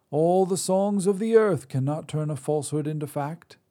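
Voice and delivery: put-on high, loud cranky old woman; old Drea. Old witch scolds the god who ruined dinner, high and loud. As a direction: snap at him like a crotchety crone.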